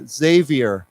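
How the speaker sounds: slow "Xavier" starting with a Z; "Xavier" drawn out, opening on a buzzed Z; Z pronunciation. Shown as a demonstration. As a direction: model "Xavier" slowly as ZAY-vee-er. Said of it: "It's pronounced with a Z".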